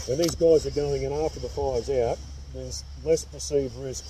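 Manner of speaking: muffled behind respirator; speaking inside mask; through a face mask. Real, not acted. Seen 3: Clear half-face respirator worn over nose and mouth throughout.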